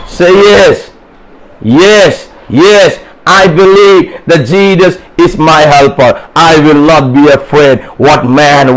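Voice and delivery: emphatic call-and-response preaching; rousing sermon exhortation. Real, not acted. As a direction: press the question, then declare the answer with conviction. Preacher calls congregation to respond.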